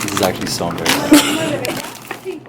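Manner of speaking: embarrassed whine. Real, not acted. Embarrassed about filming in store.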